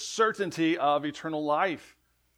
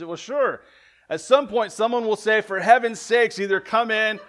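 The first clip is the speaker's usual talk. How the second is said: put-on laughing punchline of the boy's story, rising loud; kid's joke told with a grin and a laugh; boy explaining his plan, louder and higher, laughing; boy's cheeky answer; 6 semitones higher, 9 dB louder than usual.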